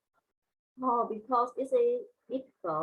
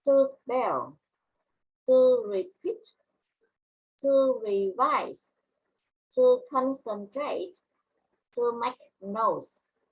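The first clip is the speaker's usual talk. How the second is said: each phrase spoken separately, with pauses between; measured word-list drill, slowing on the longer items; listen-and-repeat modelling; slower than usual. Shown as a demonstration. Teacher models new words for students to repeat, listen-and-repeat drill. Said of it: "listen and repeat once more".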